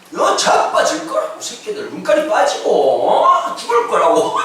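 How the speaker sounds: acting out gleeful, drawn-out cursing; mock cursing. Jonah cursing the people of Nineveh, mock cursing. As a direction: imitate a prophet relishing his threats. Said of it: "막 이러면서 했는데".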